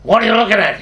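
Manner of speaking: imitating an angry man's yell; retold angry yell. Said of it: "Tony yelled at him".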